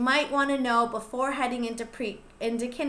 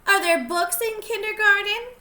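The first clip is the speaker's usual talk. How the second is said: lightly voiced kid; 7 semitones higher, 5 dB louder than usual. Child character asks.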